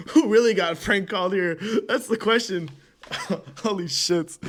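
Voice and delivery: laughing. Real, not acted. Laughing at failed call.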